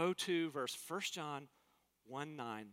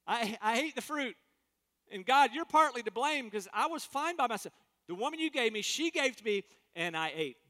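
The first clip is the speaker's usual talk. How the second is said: Adam blaming God; 4 semitones higher, 4 dB louder than usual. Retold or imitated. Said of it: "He said this".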